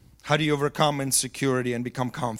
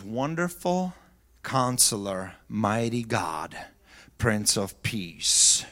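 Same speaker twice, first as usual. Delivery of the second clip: reverent; 5 semitones lower, slower than usual. Acted. Reverent slow naming of titles.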